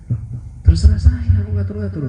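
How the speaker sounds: high bantering retort; joking retort. Retold or imitated. Kiai joking back at pushy practitioners, high pitched. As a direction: snap back in jest, high.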